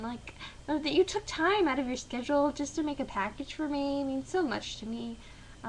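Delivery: a daughter mocking a gift with fake gratitude; sarcastic thanks. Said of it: "saying in my blandest, you know, most sarcastic tone".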